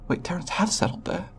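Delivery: astonished double-check; disbelief. Acted. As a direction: blurt it out, taken aback. Alien learns of settlement at poles.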